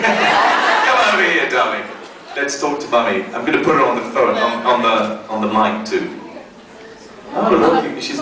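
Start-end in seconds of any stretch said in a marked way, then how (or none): 0.0-1.8 mock posh voice. Convention panel, voicing a character.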